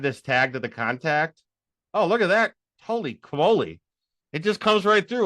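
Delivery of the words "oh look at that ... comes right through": thrilled it just works; delighted. Real, not acted.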